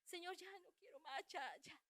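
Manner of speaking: very soft, high, spent plea; re-enacted faint, worn-out prayer; exhausted surrender. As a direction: give up to God with no strength left. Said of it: "mis fuerzas se habían acabado".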